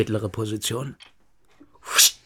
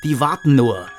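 louder, higher, rising anger; heated outburst; 4 semitones higher, 4 dB louder than usual. Acted. Ranting to his friend about the people who are fed up, angry. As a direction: spit it out in rising fury. Heated rant against the regime.

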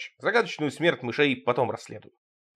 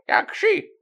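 very high, squeaky creak. Acted. Grandmother greeting the narrator, high and creaky. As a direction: creak it out like an old crone. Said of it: "проскрипела она".

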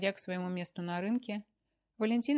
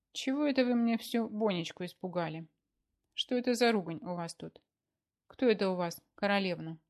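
louder, stern wife's rebuke; menacing; 6 dB louder than usual. Acted. Wife grills her husband over who the queen is, menacing. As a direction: scold him with a hard stare in the voice. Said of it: "Грозно уставилась она на супруга".

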